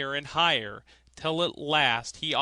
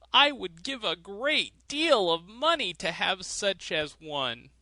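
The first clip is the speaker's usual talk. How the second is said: miser; 5 semitones higher, 3 dB louder than usual. A narrator's reading. Miser admiring the thrush in a higher old voice. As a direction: coo over the bird as a greedy old man.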